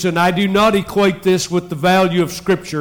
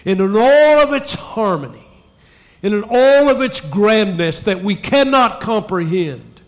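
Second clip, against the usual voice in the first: psalmist's awe; 3 semitones higher than usual. Retold or imitated. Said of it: "The psalmist, I think, is saying".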